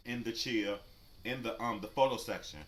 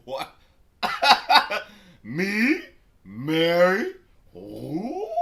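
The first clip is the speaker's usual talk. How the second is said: loud, higher laugh then incredulous questions; cracking up, louder and higher; laughing disbelief; 8 semitones higher, 14 dB louder, much slower than usual. Real, not acted. Laughing at the accusation.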